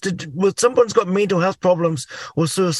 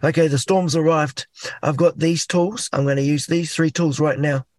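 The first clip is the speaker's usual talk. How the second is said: calm; 2 semitones lower than usual. Retold or imitated. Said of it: "trying to be calm in the storm".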